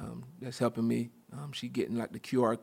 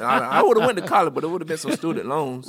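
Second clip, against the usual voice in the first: laughing while talking, pitch jumping up; 6 semitones higher, 12 dB louder than usual. Real, not acted. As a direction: chuckle through the words. Joking about student loans.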